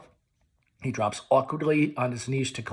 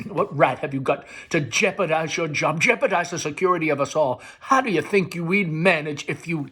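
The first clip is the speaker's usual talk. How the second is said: loud, pressing demand; mother pressing him loudly; stern mother; 4 semitones higher, 5 dB louder than usual. Acted. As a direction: demand an answer. Mother scolding.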